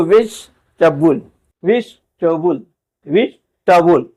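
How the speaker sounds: वेजिटेबल as three syllables, "vej-tuh-bul"; correct version. Shown as a demonstration. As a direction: model वेजिटेबल with the middle e swallowed. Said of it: "हम लोग पढ़ते हैं". (वेजिटेबल "वेज-टबल")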